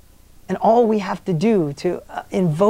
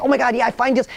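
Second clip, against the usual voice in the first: higher, lightly excited Tom; imitating excitement; 5 semitones higher, faster than usual. Coach retells Tom getting excited about deals, lightly excited. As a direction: perk up as the deals come to mind. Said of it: "He got all excited".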